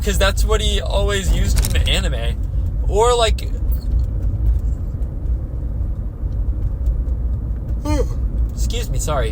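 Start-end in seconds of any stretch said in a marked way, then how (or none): 3.5-8.5 long, unvoiced yawn. Real, not acted. Player interrupted mid-rant by tiredness, long real yawn. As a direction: let a real yawn take over. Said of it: "I'm yawning".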